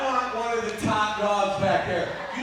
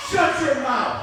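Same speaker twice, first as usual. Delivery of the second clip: angry; 4 semitones higher than usual. Acted. Heel promo yelling at commentators.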